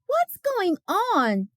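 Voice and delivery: a teacher stepping into a quarrel; teacher asking. Acted. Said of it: "asked Miss Olsen".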